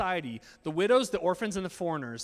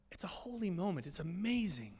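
breathy whisper, softer, hushed in awe; 6 dB quieter than usual. Acted. Pastor hushed by the bride's entrance, whispering in awe. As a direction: whisper it like the church has gone silent.

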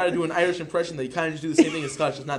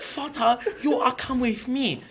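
softly put-on German accent; unhurried mock German, slightly raised pitch; calm German accent; 4 semitones higher, 4 dB quieter than usual. German son asking father along, calm German accent. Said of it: "the calm German impression sounds like this".

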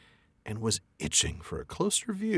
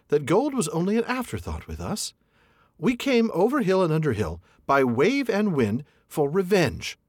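higher, earnest hobbit voice; Bilbo's brave front; 8 semitones higher than usual. A narrator's reading. Hobbit defying the dragon, higher and earnest. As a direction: stand tall and sound loyal. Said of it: "in an effort to remain loyal".

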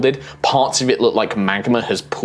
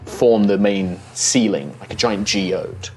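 story narration; 4 dB quieter than usual. A narrator's reading. GM scene setting.

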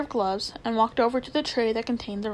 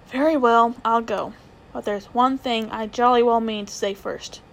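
louder, determined and bitter; defiant boy; 4 dB louder than usual. Acted. Nephew warning his wicked uncle, louder. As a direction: stand up to him with a threat.

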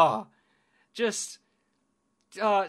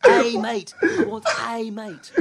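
higher, louder, slow Donna voice, pushing the word mate; Donna impression, laughing; 7 semitones higher, 7 dB louder, slower than usual. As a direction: redo Donna through laughter, stressing mate. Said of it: "that was a really good impression".

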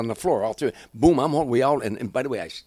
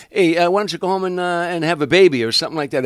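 louder, higher, goading the lady; loud taunting jab; 7 semitones higher, 9 dB louder than usual. Retold or imitated. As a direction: bait her in front of the crowd. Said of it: "He said".

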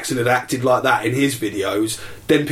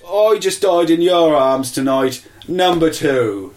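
slow quoted line; 2 semitones higher, slower than usual. Retold or imitated. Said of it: "they said".

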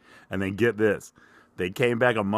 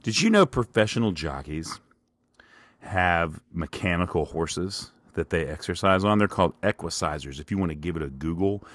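mock Shark Tank pitch. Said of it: "this is Shark Tank".

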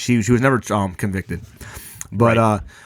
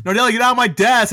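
much higher mock teacher voice, slowing on the order; a put-on coach shooing a student away; imitating the teacher; 10 semitones higher than usual. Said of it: "That's how he talked, too".

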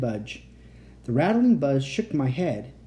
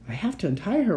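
a touch of fear, pitched up; higher, mildly anxious resolve; trembling voice; 6 semitones higher, faster than usual. A narrator's reading. Boy insists on freeing the captive, trembling slightly. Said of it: "His voice trembled".

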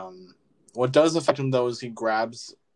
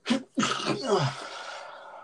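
sneeze; 10 semitones higher, 5 dB quieter than usual. Real, not acted. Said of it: "hold on, I gotta sneeze".

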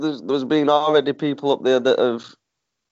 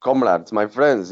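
mock Russian accent; slower than usual. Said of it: "what was that accent?".

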